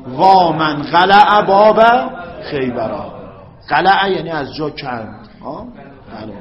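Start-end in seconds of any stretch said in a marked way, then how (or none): 0.1-3.1 slow lament, وا held long; drawn-out lament. Shown as a demonstration. Teacher repeating his lament example, slow and drawn. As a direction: pull out the cry slowly. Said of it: "من به جای این چی گفتم؟".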